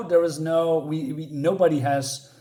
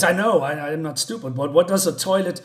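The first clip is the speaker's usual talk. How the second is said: higher, louder baffled protest; comic indignation; 4 semitones higher, 4 dB louder than usual. Retold or imitated. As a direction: retell an affronted man's puzzled question. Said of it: "from serious to humor".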